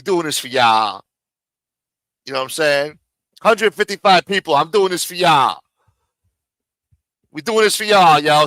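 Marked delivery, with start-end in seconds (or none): 3.4-5.6 mock hype. Mocking the rival's hype. 7.3-8.5 higher and louder, mocking the hype; hammed-up hype-man yell; mock hype shout. Mocking the other streamer's catchphrase.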